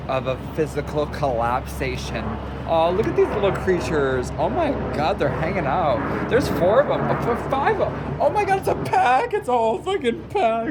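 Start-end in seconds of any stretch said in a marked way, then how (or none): 2.7-10.7 high, loud squeals over the pigeons; excited shouting. Real, not acted. Vlogger shouts to viewers about pigeons, high and excited. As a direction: gush loudly at a pack of pigeons. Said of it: "I don't mean to shout".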